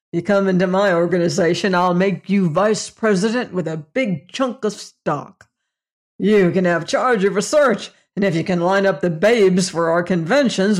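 a hint of a hearty, leering salesman; lightly voiced brash boss. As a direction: lightly play the jovial boss slapping backs. Narrator voices the boss Fader.

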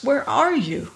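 high-pitched bewildered question; gasped. A narrator's reading. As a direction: ask in startled confusion. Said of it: "Pid gasped".

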